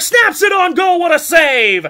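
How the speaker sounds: sudden rising shout of a big save; excited shout. Real, not acted. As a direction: call the save with a burst. Live hockey save call.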